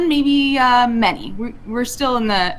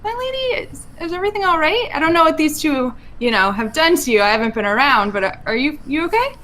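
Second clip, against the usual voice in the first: much higher, fast and stammering with worry; anxious high-pitched check-in; worried concern; 6 semitones higher, faster than usual. Acted. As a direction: fret anxiously over her. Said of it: "I think Vi would say".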